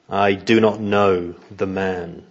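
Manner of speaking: slow, measured emphatic denial. Acted. Peter denies Jesus with an oath, slow and emphatic. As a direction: deny it slowly, word by word. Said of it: "Peter's denial has become more, uh, emphatic".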